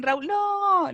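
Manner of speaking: high, drawn-out "no" imitating the students; teasing group groan, stretched out; mock class outcry. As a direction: playfully voice the whole class protesting. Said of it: "Todos dicen".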